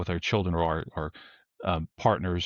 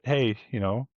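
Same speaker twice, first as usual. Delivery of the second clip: joking warning. Retold or imitated. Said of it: "I'm kind of joking with the person".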